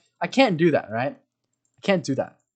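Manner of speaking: ordinary talk, nothing marked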